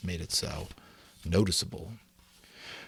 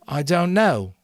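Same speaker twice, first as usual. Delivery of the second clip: put-on higher, slow, hesitant boy; timid Simon; 9 semitones higher, 6 dB louder than usual. A narrator's reading. Simon to the hostile assembly, slow and hesitant. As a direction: push the words out shyly.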